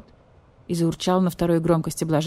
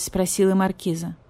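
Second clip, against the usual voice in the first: ordinary delivery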